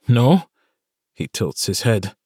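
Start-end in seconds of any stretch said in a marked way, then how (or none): 0.1-0.5 Irishman's courteous greeting; light Irish lilt; Irish accent. A narrator's reading. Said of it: "an Irish accent obvious".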